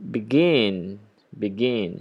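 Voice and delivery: "begin" with the beat on the end, be-GIN; second-syllable stress. Shown as a demonstration. Teacher shows when to double the consonant, second-syllable stress. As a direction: lean on GIN in "begin", drawing it out the first time. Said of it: "So the stress right here".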